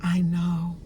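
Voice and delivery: put-on tender whisper-close self-soothing to the inner child. Shown as a demonstration. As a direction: comfort a hurting little one like a parent. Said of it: "and just say".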